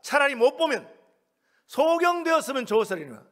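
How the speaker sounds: loud, hammering pulpit delivery; emphatic sermon rebuke; forceful preaching. Real, not acted. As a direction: preach it hard, leaning on key words.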